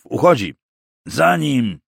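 high, loud order; urgent shout. A narrator's reading. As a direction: call the men to give chase. Commander sends men after fugitive.

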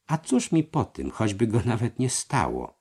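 reluctant. A narrator's reading. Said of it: "zawołał mistrz niechętnie".

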